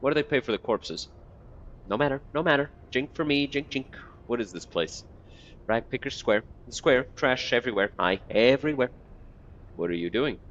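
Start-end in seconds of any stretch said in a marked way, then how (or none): 1.9-3.9 higher, broken-grammar beggar mumbling; lightly voiced muttering old beggar; twitchy beggar. 5.7-8.9 higher, broken-grammar beggar mumbling; lightly voiced muttering old beggar; twitchy beggar.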